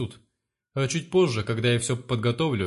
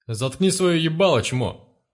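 higher, louder snarl that cuts in; cutting him off; 4 semitones higher, 4 dB louder, slower than usual. Acted. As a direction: shut him up mid-word. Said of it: "оборвал его Одноглазый".

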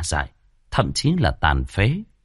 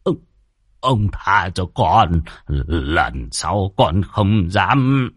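very slow, halting, frightened begging; stammering plea; much slower than usual. Acted. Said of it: "lắp bắp".

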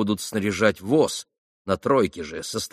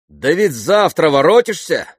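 громкий встревоженный вопрос; 7 semitones higher, 7 dB louder than usual. Acted. Пётр Ильич переспрашивает с тревогой.

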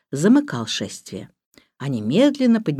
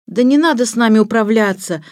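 put-on higher, louder boyish protest; indignant; 5 semitones higher, 5 dB louder than usual. A narrator's reading. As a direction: object to being handled. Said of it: "вознегодовал Сирил". (возмущённо)

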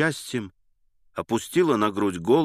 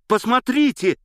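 much higher, louder shout of the repeat; excited shout; 14 semitones higher, 6 dB louder than usual. A narrator's reading. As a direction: cry it out, pleading to be seen. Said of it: "кричал он, обращаясь ко мне".

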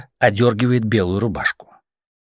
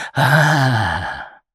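growl. A narrator's reading. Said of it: "рычит она".

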